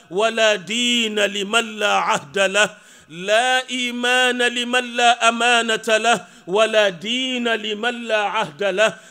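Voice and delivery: brisk, rhythmic Arabic recitation of a hadith; quick chanted hadith quote. Acted. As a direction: recite the Prophet's words at a fast, measured pace.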